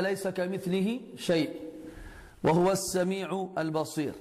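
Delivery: brisk chanted verse; Quran recitation. Acted. Teacher quotes the verse to students, smooth chant.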